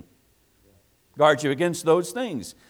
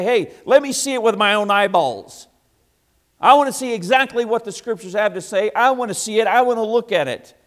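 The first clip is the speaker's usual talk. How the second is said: raised, insistent voice of a Berean demanding proof; eager loud Bereans; 5 semitones higher, 7 dB louder than usual. Retold or imitated. Preacher voicing Bereans who insist on checking Scripture, loud and eager. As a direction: push it out like a man who must see for himself.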